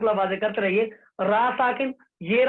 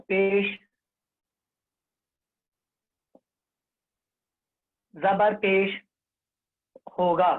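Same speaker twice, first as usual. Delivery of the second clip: word by word, long pauses between; teacher spelling out a rule with pauses; slow recitation drill; much slower than usual. Shown as a demonstration. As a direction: dictate the rule slowly for the class to repeat. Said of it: "अब फिर से दोहराओ".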